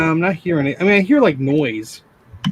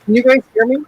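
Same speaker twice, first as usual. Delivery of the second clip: hydrophone underwater voice; 6 semitones higher, 4 dB louder, faster than usual. Real, not acted. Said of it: "you sound like you're underwater".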